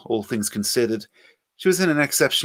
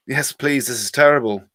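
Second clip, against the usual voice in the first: flat; 3 semitones higher, 5 dB louder than usual. Acted. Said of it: "Joanne said flatly".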